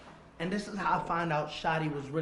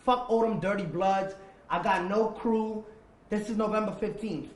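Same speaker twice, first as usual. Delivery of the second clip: defiant declaration; 3 semitones higher, 4 dB louder than usual. Retold or imitated. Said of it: "I said".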